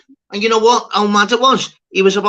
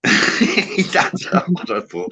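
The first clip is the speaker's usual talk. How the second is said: laughing disbelief; 2 semitones higher, much slower than usual. Real, not acted. Laughing at chat banter.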